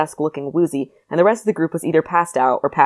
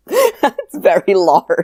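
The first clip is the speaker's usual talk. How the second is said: slow, smug, drawn-out boast; humble brag; 4 semitones higher, 5 dB louder, much slower than usual. Retold or imitated. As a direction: savour the brag. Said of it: "humble bragged".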